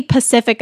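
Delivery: Pacific said for specific, no initial s; mispronounced specific. Shown as a demonstration. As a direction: drop the s, saying "Pacific". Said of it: "I'd be like".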